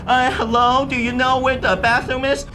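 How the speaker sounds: high, put-on Chinese accent; hammed-up Chinese-accented English. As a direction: ask as a learner with a heavy Chinese accent. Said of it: "I speak English like this".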